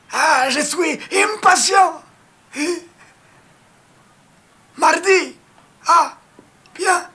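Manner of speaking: hammed-up Argentine accent on the phone. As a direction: fake an Argentine caller, shouting a little. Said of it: "moi, je prends l'accent argentin".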